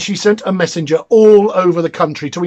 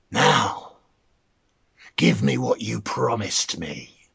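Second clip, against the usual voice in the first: mannikin's demand; 8 semitones lower, 7 dB quieter, slower than usual. Acted.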